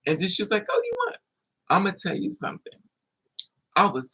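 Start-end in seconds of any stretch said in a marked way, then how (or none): 0.7-1.2 much higher, sassy challenge; girlfriend taunting. Retold or imitated. Girlfriend challenging the guy, high and sassy. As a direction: taunt him like the girlfriend did.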